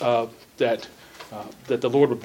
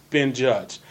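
measured reading with key words punched; emphatic, well-enunciated Bible reading; deliberate scripture reading. Real, not acted. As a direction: read scripture out with careful elocution. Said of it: "that's emphasizing certain words".

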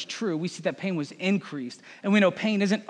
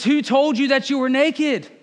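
louder, higher voice of God confronting; God questioning Adam; 6 semitones higher, 5 dB louder than usual. Acted. God confronting Adam, a louder, higher demand. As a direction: ask it as a stern father who already knows. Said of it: "It says".

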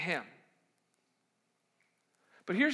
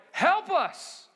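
frantic plea; 8 semitones higher, 4 dB louder than usual. Acted. Disciples crying for help.

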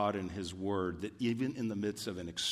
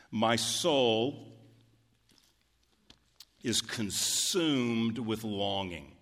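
slow, weighty reading; much slower than usual. Shown as a demonstration. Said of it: "I know it's poetic, but that's powerful".

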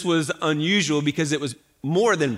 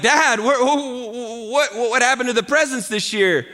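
put-on higher, halting kid voice; child asking; 6 semitones higher than usual. Kids at Christmas asking dad where presents went, halting high voice. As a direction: stammer it like a confused child.

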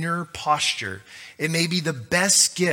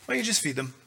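calm reply; 5 dB quieter, much faster than usual. Retold or imitated. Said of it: "He's not panicked".

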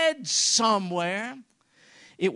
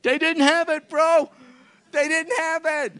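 loud; 7 semitones higher, 7 dB louder than usual. Real, not acted. Preacher answers the crowd loudly.

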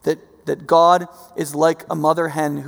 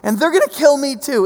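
raised, louder voice as Jesus; Jesus speaks up, his own death ahead; Jesus quoted; 9 semitones higher, 7 dB louder than usual. Retold or imitated. Preacher voicing Jesus, raised and louder. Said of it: "He's like".

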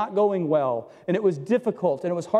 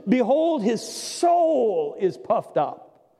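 slowed, swollen reading of puffed up; re-quoting the verse with a touch of mockery; much slower than usual. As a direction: stretch it out as if inflated.

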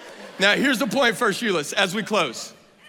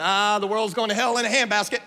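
lightly whiny mock complaint; mock griping. Preacher mimicking saints complaining about the world, mock griping. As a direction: grumble it in exaggerated dismay. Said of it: "griping and complaining about the world".

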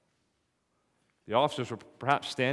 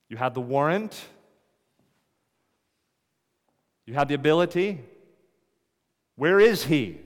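rising, louder scolding questions; indignant demand; 3 semitones higher, 4 dB louder than usual. Acted. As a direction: demand answers from the officers. Chief priests scolding the officers.

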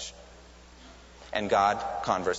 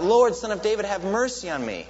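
high, loud plea from the roadside; begging cry for mercy; beggar crying out; 9 semitones higher, 5 dB louder than usual. Retold or imitated. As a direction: call out to be heard over the crowd. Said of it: "crying out".

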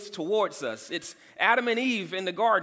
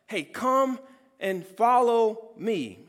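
calling; slower than usual. Retold or imitated. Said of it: "calling us".

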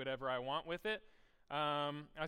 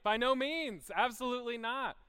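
much higher and louder, firm no; emphatic refusal; 8 semitones higher, 7 dB louder than usual. Acted. Pastor answering for Paul, loud emphatic refusal. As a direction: slam the door on it.

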